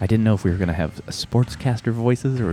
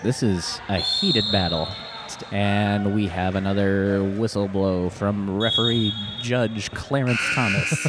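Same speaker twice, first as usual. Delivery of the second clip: sportscaster voice; slower than usual. Acted. Mock play-by-play call.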